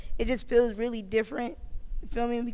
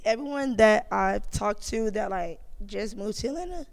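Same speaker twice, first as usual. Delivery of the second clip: cracking, strained voice; hoarse voice breaking up. Real, not acted. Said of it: "damn, my voice cracking and shit".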